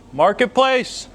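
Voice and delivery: incredulous. Real, not acted. Repeats it even higher.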